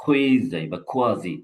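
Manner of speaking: "কোয়েজাই বা কোয়াজি" with each form said clearly; pronunciation model. Shown as a demonstration. Teacher offers students both forms of "কোয়েজাই". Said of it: "এটার উচ্চারণ হলো কোয়াজি বা কোয়েজাই".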